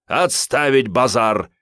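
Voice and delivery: slow, loud barked command; barked order. A narrator's reading. Sanych shuts down the squabble with a loud bark. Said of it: "рявкнул Сан Саныч".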